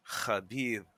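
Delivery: KHABIB sounded out by itself, throaty KH at the start; sounding out KHABIB. Shown as a demonstration. Podcaster recalling how he learned a hard Russian name, sounding out KHABIB. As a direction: say KHABIB carefully as one isolated word. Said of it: "K H? What is this shit?".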